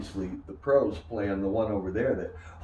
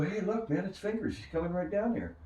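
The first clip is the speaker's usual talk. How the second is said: put-on excited young players; 10 semitones higher than usual. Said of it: "And we go".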